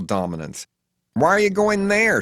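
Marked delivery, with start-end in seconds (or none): 1.1-2.2 high, loud shocked question; horrified. A narrator's reading. Faye reacts to his destination, horrified. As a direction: recoil at the answer. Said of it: "she asks in a horror".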